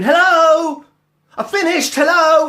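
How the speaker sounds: high, loud mock appliance voice; chirpy machine voice. Voicing the washing machine's alert, high mock chirp. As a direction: play the washing machine announcing itself. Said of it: "in the corner of the kitchen going".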